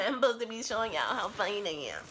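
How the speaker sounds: giggly self-mocking repeat; laughing. Real, not acted. Vlogger laughing as she remembers to show off, giggling. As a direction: laugh through the line at yourself.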